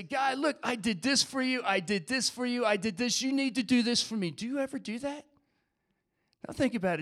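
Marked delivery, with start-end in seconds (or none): 0.0-4.3 mock demand to God, higher-pitched; demanding prayer. Sample prayer of someone making demands of God, insistent. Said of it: "go to God and say".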